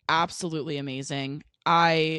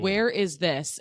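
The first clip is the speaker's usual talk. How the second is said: matter-of-fact, close to usual talk; blunt question; slower than usual. Retold or imitated. Traveler asking staff for directions, blunt. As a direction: ask it bluntly, no fuss. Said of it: "I'm a very blunt person".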